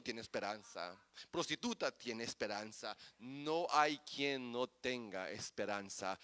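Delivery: soft, low, intimate sermon voice; hushed preaching. Acted. Preacher quietly assuring the congregation, hushed. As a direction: drop to a hush to draw them in. Drops to near whisper.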